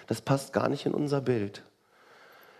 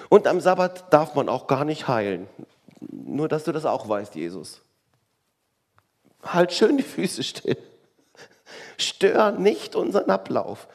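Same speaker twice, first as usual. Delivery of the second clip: scolding Pharisee; 3 semitones higher, 4 dB louder than usual. Retold or imitated. Pharisee tells Jesus to keep still, mock scolding. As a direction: scold him to keep still, pitch climbing.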